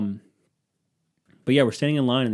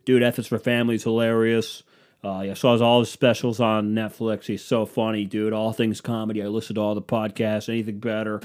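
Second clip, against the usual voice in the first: fake fan gushing; 3 dB louder than usual. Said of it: "starts naming off Bill's projects".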